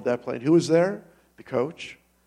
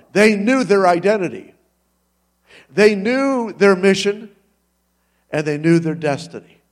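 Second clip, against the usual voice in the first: rising preaching; 4 semitones higher, 5 dB louder than usual. Real, not acted. Preacher builds rhythmic climax.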